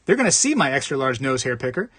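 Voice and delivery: angle for a discount, mock fussy; scheming buyer. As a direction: buyer demanding a refund, lightly voiced. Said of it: "the person's like".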